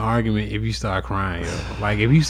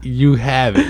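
louder retold surrender; frantic giving in; 2 semitones higher, 5 dB louder, slower than usual. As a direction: hurriedly hand it over to stop the tears. Acting out giving in to crying child.

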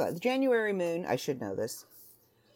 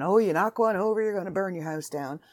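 high, loud fussing voice; whiny mock warning; mock worried emailer; 5 semitones higher, 4 dB louder than usual. Mocking a worried viewer, high and loud fuss. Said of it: "don't be emailing me and going on about".

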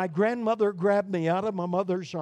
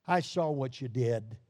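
lower, grave "I saw what you did"; stern father; 5 semitones lower, 4 dB quieter than usual. Acted. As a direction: say it as an accusation. Stern father in justice scene.

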